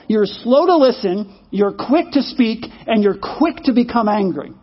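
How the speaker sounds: slowed down, each phrase spaced out; slow, deliberate recital. Shown as a demonstration. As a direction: read the verse back slowly. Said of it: "Is that kind of where you are?".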